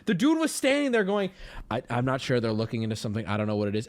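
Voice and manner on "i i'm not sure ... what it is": officer. Retold or imitated. Acts out officer standing there.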